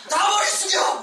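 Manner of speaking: loud order pitched high; furious teacher shouting. Retold or imitated. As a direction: yell at the class to bow heads. Teacher banging lectern.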